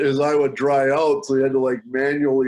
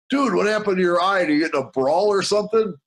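higher, quick startled asking; stunned question; 5 semitones higher, faster than usual. Retold or imitated. Narrator blurting to Pardeep, startled and fast. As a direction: blurt it out in shock at the taped eye. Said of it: "I'm just like".

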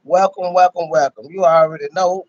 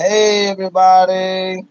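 shout-out demo; 4 dB louder, slower than usual. Shown as a demonstration. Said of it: "Put everybody on blast. Like".

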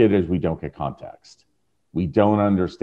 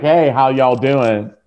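friendly greeting to room; 5 semitones higher, 4 dB louder, slower than usual. Pretend. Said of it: "I walk in the room and I'm like".

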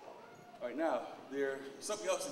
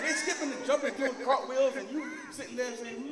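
higher and louder through laughter; laughing excitedly; 11 semitones higher, 8 dB louder than usual. Real, not acted. Pointing out the energy vampires, laughing loud and high. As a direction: laugh it out, building up the picture.

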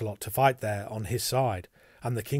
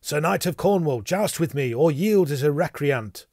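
raised, louder knightly challenge; challenging cry; 4 semitones higher, 6 dB louder than usual. A narrator's reading. Sir Kay challenges the Cornish knight to joust, crying out. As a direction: call out a challenge, pitched up. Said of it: "Then Sir Kay cried".

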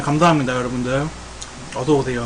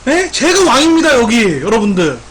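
mock boast; 4 semitones higher, 4 dB louder than usual.

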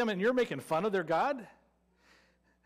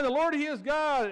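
crying out; 4 semitones higher than usual. Retold or imitated. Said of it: "they're crying".

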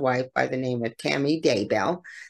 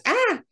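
sudden high yelp of a scream, much higher in pitch; retold scream. Narrator imitates Tammy's cry before the thud, a sharp high scream. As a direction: let out a short startled cry. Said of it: "All of a sudden you hear, like, this".

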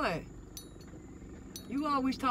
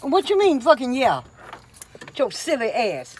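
indignant yelling at daughter; angry outburst; 2 semitones higher, 7 dB louder than usual. Real, not acted. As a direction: tear into her for talking back. Mom angrily confronting daughter.

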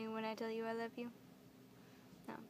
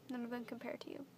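"None of them compare to you" said softer and gently, tune rising on "them"; softer to him; 5 dB quieter, faster than usual. Real, not acted. Turning from the camera to speak softly to her boyfriend. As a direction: drop the volume and say it tenderly to him. Turns to address boyfriend directly.

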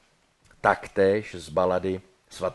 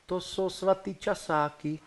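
put-on timid girl; 9 semitones higher than usual. Bride answers meekly in a high Brno girl's voice. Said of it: "Brněnsky by to mohlo znít".

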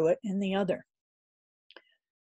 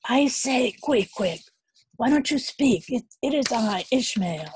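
calling out; 6 semitones higher, 4 dB louder than usual. A narrator's reading. Calling through a locked door.

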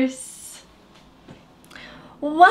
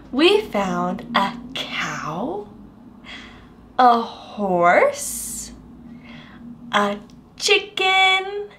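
whisper; 6 semitones lower, 3 dB quieter, slower than usual. Acted. Hushed recap to child.

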